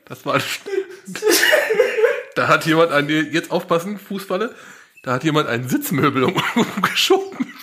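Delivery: breaking up with laughter mid-sentence; can't stop laughing while reading; giggling fit. Real, not acted. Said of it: "hab mich fast verschluckt".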